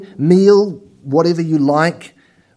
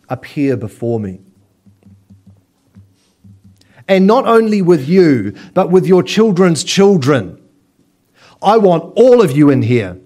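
God as judge. Pretend. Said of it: "it's almost like saying".

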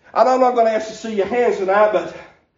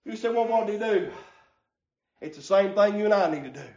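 preaching at full force; 3 semitones higher than usual. Acted. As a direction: whoop it up like a revival preacher, breath punching every line. Preacher builds into chanted preaching.

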